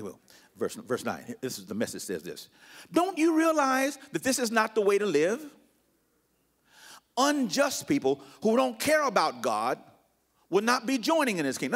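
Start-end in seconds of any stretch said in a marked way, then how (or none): 2.9-11.7 raised, declaiming pulpit voice; scripture reading. Acted. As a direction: read the verse out as a challenge. Reads The Message aloud.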